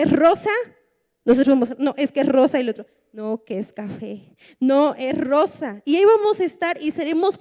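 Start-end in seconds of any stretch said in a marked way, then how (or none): 1.8-2.6 insisting loudly, a little mock-stubborn; stubborn insistence. Preacher acting a believer who insists the brown floor is pink. Two people argue floor colour. 3.1-5.8 slower other voice. Retold or imitated. Preacher voicing the other side of a petty floor-colour argument.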